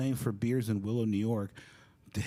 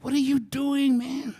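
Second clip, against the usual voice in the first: high, loud outraged demand; exasperated scolding; 9 dB louder, slower than usual. Retold or imitated. James coming up to the young player, exasperated. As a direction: confront him in high-pitched disbelief. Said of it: "he comes up to me and he goes".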